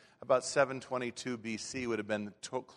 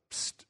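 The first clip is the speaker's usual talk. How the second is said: a conspiratorial psst from the cage; parrot's psst. Acted. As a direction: sly hiss to get attention. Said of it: "looks at Ollie and goes".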